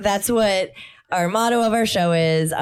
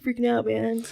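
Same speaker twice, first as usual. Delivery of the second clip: freaking out; 4 semitones higher, 4 dB quieter than usual. Acted. Acting a panicking high friend.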